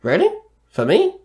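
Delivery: high, leaping excited questions; burst of energy. A narrator's reading. Young bowler promised a surprise, bursting with energy. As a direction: pitch shoots up, eager and surprised. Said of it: "asked with a burst of energy".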